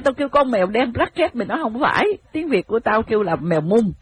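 mock rant of a frustrated foreign student; exasperated American. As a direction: vent like an American learner at his wits' end. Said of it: "Nó nói".

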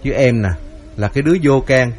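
lightly voiced son-in-law, mild wounded indignation; a touch of a hurt man defending himself; indignant younger son-in-law. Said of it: "cậu bất bình lắm".

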